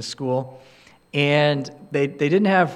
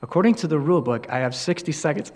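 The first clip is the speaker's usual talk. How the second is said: same calm tone; 4 dB quieter, much faster than usual. Retold or imitated. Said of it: "in the same tone".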